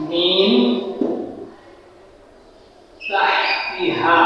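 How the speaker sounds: "মিন তাহতিহা" with the ন hidden in a held nasal hum, drawn out slowly; "মিন তাহতিহা" recited slowly, the ন hidden in a long nasal hum; nasal ghunna recitation. Shown as a demonstration. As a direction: recite "মিন তাহতিহা" humming the ন through the nose. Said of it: "নাকের বাসি থেকে গুণনা করে গোপন করে করতে হবে".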